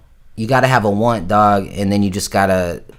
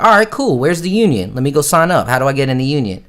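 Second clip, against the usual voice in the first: eager excited; 4 semitones higher than usual. Retold or imitated. Eager young actor asks director.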